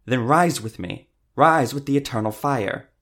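loud, high rallying cry; fervent shout. A narrator's reading. Cleric hauls the woman up, loud fervent command. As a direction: proclaim it at full fervour.

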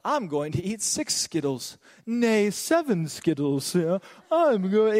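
slow, lightly mock-solemn proclamation; a hint of pompous Bible-verse voice; Bible college joke. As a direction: declare it like mock scripture, stretching the words. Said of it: "we'd be like".

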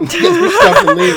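high, loud, slow laughing sing-song; mock classmates. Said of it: "everyone's like".

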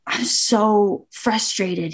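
slow, half-whispered retold confession; retold frustration. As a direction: let it out slowly, almost whispering. Upset player confiding in her dad.

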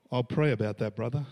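mock pious brush-off. Church member dodging a plea for helpers, mock pious brush-off.

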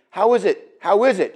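gently polite question; courteous host's query. Acted. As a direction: ask it kindly, not accusing. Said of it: "he says it very politely".

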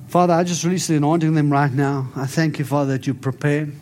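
steady prayer voice over them. Acted. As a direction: pray the blessing out with conviction.

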